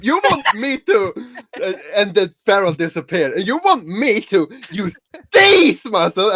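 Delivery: giggling through a mock boast; laughing boast. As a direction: brag while cracking up. Rivet boasting of his noodle arms.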